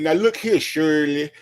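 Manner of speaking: lightly voiced folksy radio host, laughing through it; Steve Harvey impression. A hint of a radio host lecturing his co-host, amused. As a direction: play the host lecturing Shirley with a chuckle. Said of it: "And then Steve would come in".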